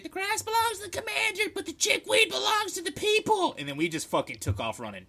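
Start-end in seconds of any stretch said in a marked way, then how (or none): 0.0-3.5 high, loud mock proclamation; retold yelling back. Drunk trainee answering the officer, high retold yell. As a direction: declaim it at a yell, building louder. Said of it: "I just yelled back".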